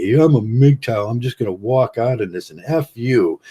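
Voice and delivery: put-on immature child voice. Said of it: "an immature child would think that way".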